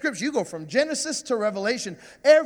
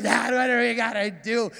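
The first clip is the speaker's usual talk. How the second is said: sarcastic. Retold or imitated. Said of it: "And so sarcastic".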